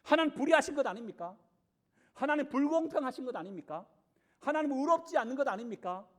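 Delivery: a saved believer challenging God's fairness; mock protest to God. Believer confronting God, indignant mock protest. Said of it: "앞에 와서 따지는 거예요".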